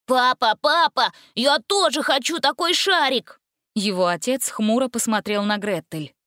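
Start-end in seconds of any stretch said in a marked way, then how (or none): 0.1-3.4 put-on high, whining child pleading for a toy; whiny little boy. A narrator's reading. Little boy whining at his dad for a balloon. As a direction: whine like a spoiled little kid. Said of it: "капризно заголосил".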